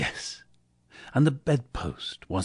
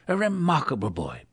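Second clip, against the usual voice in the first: delighted Scrooge; 6 semitones higher than usual. A narrator's reading. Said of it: "said Scrooge".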